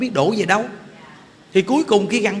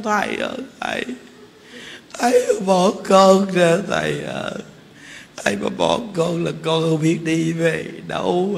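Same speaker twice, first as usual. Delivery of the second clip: imitated tearful begging; 3 semitones lower than usual. Old woman begging the monk not to abandon her, mock pitiful pleading. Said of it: "bả thì bả lại năn nỉ mình".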